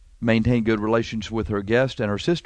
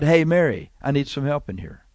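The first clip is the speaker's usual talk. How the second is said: calm request. Acted. Martha asking Mary for help in the kitchen, calmly. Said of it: "should have just calmly said".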